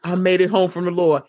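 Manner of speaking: mock-dramatic soldier's homecoming; mock returning soldier. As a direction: announce a weary return from war, in jest. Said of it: "it does look like he's coming home".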